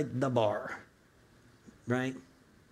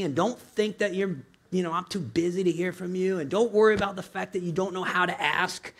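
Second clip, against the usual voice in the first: tender Father's voice; 3 semitones higher than usual. Pretend. Voicing the Father's invitation.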